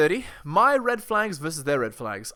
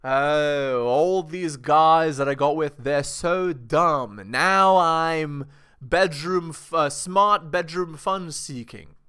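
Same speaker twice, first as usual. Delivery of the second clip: mocking valley girl; 7 dB louder, much slower than usual. Mocking a woman's bragging.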